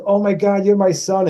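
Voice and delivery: high imitated cry of recognition; retold amazement. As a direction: act out her joyful discovery. Co-star plays along, amazed.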